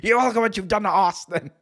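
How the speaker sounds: light imitation of an angry commentator; mild JR impression.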